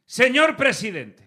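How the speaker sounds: slow, loud and solemn; mock pundit addressing the president. Mocking a guest speaking to the president through the camera, slow and solemn. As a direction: turn to camera and declaim it. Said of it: "Miran a cámara y hacen".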